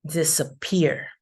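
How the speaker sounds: "disappear" with lighter stress on the first syllable, main on the last; secondary stress on first syllable. Shown as a demonstration. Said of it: "less prominent stress in di".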